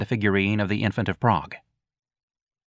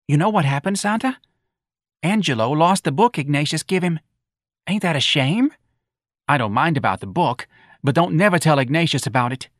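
higher, louder worried matron; confiding old mother; 7 semitones higher, 3 dB louder than usual. Acted. Missus Riley fretting to Santa about Ignatius. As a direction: fret and confide to a friend.

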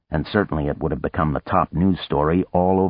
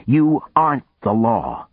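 raised, higher, louder snap back; loud retort; 7 semitones higher, 4 dB louder than usual. Acted. Boone defying the officer in his face, loud and sharp.

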